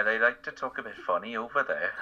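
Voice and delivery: attempted light Welsh accent. Shown as a demonstration. Joking about how Wales talks, mock Welsh accent. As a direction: try on a Welsh lilt. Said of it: "as far as the Welsh goes".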